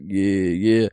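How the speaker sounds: lightly imitated low, dazed mumble; a hint of a drugged-out reply; a rapper, drugged out. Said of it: "like, drugged out".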